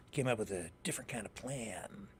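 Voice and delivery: whispered, conspiratorial; hushed whisper building suspense. Acted. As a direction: lean in and whisper the twist. Dramatic buildup to a reveal.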